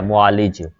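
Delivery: मुआलिज as mu-aa-lij, ending on short i; correct pronunciation demo. Shown as a demonstration. Teacher showing the vowel marks, careful demo of मुआलिज as mu-aa-lij. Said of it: "लाम के नीचे जो है ना ज़ेर है".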